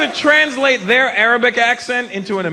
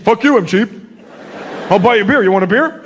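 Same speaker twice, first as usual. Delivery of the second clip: defensive white guy; faster than usual. Retold or imitated. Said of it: "You ever call a white guy cheap".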